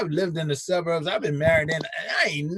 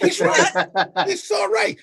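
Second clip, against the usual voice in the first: mock praise; 13 semitones higher, 3 dB louder, slower than usual. Mocking praise after laughing.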